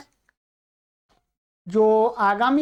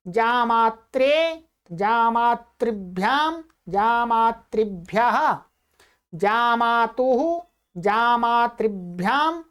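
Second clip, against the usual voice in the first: slow, even chant of Sanskrit noun forms; slow recitation; much slower than usual. Shown as a demonstration. Teacher reciting declensions for students to repeat, slow and measured chant. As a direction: intone each form clearly and slowly for the class.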